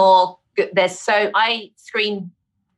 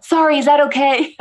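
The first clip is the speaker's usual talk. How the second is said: louder, giggling apology; laughing; 5 semitones higher, 3 dB louder than usual. Real, not acted. Guest apologising for her pause, laughing. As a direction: laugh out the sorry.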